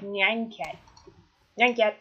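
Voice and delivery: "nine" said like "nyan", with a y glide; trying out "nine cat" pronunciation. Shown as a demonstration. Player guessing the German no, playful trial pronunciation of "nine". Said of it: "how would you say that".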